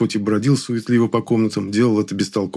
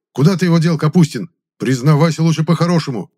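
loud, high angry demand; 7 semitones higher, 5 dB louder than usual. A narrator's reading. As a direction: press him hard, raising the voice. Gudkov angrily interrogates.

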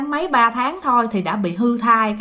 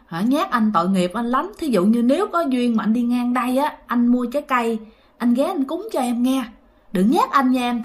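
fearful pleading prayer. Retold or imitated. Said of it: "Cái bạn mới van vái".

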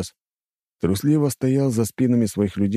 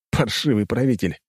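smirking; 2 semitones higher than usual. Acted. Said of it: "усмехаясь".

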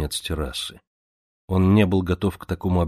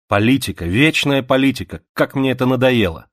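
exasperated complaint; 6 semitones higher, 5 dB louder than usual. Acted. Zita complaining bitterly.

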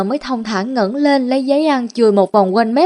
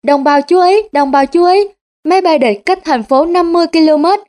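higher and louder, like an air-raid warning; loud shout; 6 semitones higher than usual. Acted. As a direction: bellow the alarm to the whole street. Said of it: "hét to".

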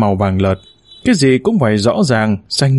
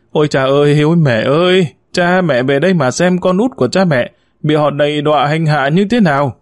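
a hint of a tantrum wail at the altar; wailing lament; 3 semitones higher than usual. Youngest son wails before the parents' altar, mock grief. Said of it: "gào khóc".

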